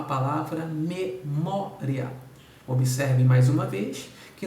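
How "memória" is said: slow example word. Shown as a demonstration. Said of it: "É o que acontece com a palavra".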